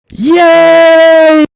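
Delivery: put-on high shouted childish yay; kid's cheer. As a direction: cheer like a thrilled little kid. Kid cheering, running away.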